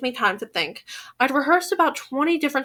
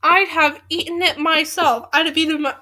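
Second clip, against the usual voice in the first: "I'd have eaten it myself" pitched up, each word pushed out; over-careful retry; 3 semitones higher than usual. Real, not acted. Forceful retry of flubbed line.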